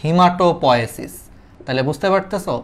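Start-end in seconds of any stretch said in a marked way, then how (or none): 0.0-1.1 slow teaching. Shown as a demonstration. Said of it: "নাম জানলেই তোমাদের হবে".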